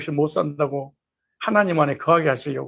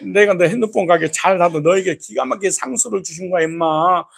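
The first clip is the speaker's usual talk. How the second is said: scolding God; 2 semitones higher, 3 dB louder than usual. Retold or imitated. Voicing God scolding congregant.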